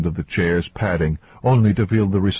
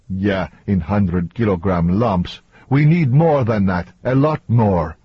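lightly voiced demanding man; a touch of heated impatience; impatient man. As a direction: press for more, building in pitch. Voices Antonio dismissing the results.

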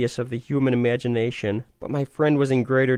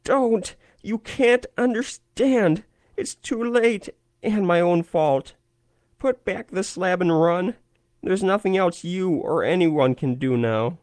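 scream of despair; 8 semitones higher than usual. A narrator's reading. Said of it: "changed to a scream of utter despair".

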